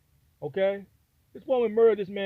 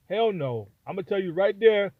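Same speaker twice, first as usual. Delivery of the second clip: usual speaking voice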